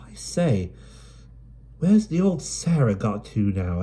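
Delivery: brisk London urchin, chatty; Dido's voice. Acted. Dido chatters on the cart.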